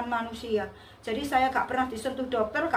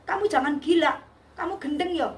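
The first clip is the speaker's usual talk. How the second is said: mock-angry scolding, pitched up; retold angry outburst; 4 semitones higher than usual. Housemaid scolding the narrator for calling on Jesus, retold anger. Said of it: "dia ngamuk-ngamuk".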